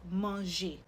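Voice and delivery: manger ending on a clean "ay"; closed A sound. Shown as a demonstration. Teacher showing an acute accent example, closed A sound. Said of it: "do you hear that A sound".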